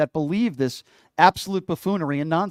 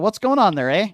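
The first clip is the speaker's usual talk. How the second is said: higher, louder mock Canadian accent; hammed-up Canadian lilt; horrible Canadian accent; 4 semitones higher, 4 dB louder than usual. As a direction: put on a bad Canadian accent, ending on "eh". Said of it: "that's my horrible Canadian accent".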